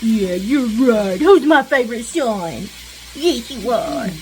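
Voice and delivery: a touch of cooing to her son; baby talk. Pretend. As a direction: soothe him gently, lightly cooing. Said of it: "in that baby talk voice".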